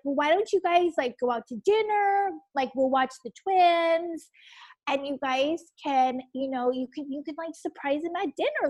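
gentle, coaxing parental suggestion; imitating sweet parents offering help; softly lilting, kindly offer; really sweet. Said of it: "they're really sweet".

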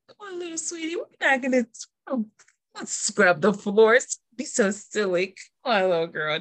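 sugary fake-sweet orphanage boss; lightly voiced, syrupy and false; Miss Hannigan. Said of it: "She'd be like".

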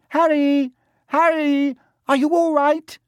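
put-on high, loud girl's call. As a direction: call out his name, worried. Hermione calling out in story.

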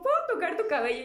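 put-on high, quick child's request; put-on childish voice, hurried; imitated little boy. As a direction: ask eagerly like a small kid. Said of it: "y me dijo".

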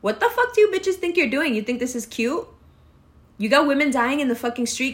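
sharp high challenge to a stranger; mock confrontation. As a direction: call her out on the street. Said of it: "I'm legitimately gonna say something".

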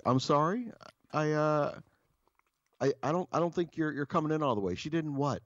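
high-pitched imitation of pet-talk. Partner not hearing the bad news, high mock pet-talk. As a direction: mimic a clueless partner in a high coddling voice. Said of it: "talking to people like they're, like they're pets".

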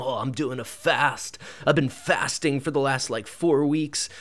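mock-weary, self-important bragging; a hammed-up martyr voice; condescending joke voice. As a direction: fish for sympathy with a smug sigh. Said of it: "condescending joke voice".

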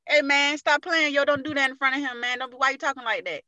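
mildly urgent mock protest; retold protest. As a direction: urge a buddy to cut it out. Retold friend urgently objecting.

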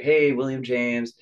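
imitating the lawyer. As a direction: sing out his name like a chirpy lawyer. Lawyer calls him on the phone.

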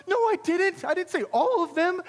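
high, loud protest; indignant denial. Retold or imitated. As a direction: act out yelling back in exasperation. Leader denies it in acted quarrel.

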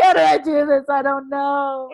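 panicked and lost, begging for answers; desperate retold plea; distressed. Her panicked reply to God.

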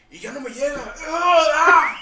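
high whining mock customer with a laugh; whiny caller. Call-center worker mocking a whiny customer, laughing. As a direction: whine it like the annoying caller, laughing.

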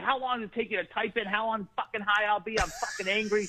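mildly angry retold rant, a bit high; pissed-off complaint, played for laughs; retold anger. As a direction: act out impatient anger without shouting. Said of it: "I was getting pissed".

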